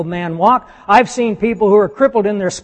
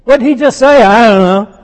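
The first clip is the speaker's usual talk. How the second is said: confused disciples; 2 semitones higher, 6 dB louder than usual. Retold or imitated. Mocking the disciples who missed what Jesus said, loud and baffled.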